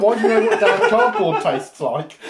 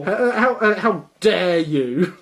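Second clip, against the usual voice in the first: slow, hammed-up how dare you; mock outrage; 2 semitones higher, slower than usual. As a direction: pretend offence, drawn out. Mock outrage at being called normal.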